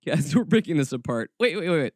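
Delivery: normal talking voice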